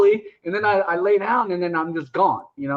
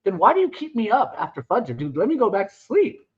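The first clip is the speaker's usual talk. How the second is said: high, incredulous protest; mock indignant whine; 3 semitones higher than usual. Teen complaining to older men, high mock outrage. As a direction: pitch it up in disbelief.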